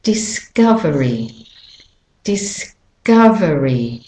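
discovery with the weight on COV, said "uh"; stress on COV. Shown as a demonstration. Teacher introducing a word, stress on COV in discovery. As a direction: stress the middle of discovery: dis-COV-ery. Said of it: "Can you hear that the cov".

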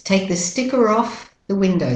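British-Australian "sticker off" run together; British-Australian sentence at natural pace; British-Australian accent. Shown as a demonstration. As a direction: flow through "sticker off" on a linking R. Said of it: "So you have to link it".

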